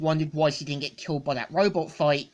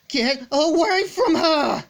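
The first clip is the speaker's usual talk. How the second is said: much higher, loud, slow furious roar; full rage; 11 semitones higher, 6 dB louder, slower than usual. Acted. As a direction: tear into it in a rage, drawn out. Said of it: "going full rage mode".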